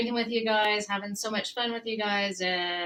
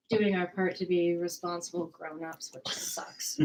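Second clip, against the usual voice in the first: whispering; 3 semitones lower than usual. Real, not acted. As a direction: whisper it like a confession. Mock-serious aside about staying home.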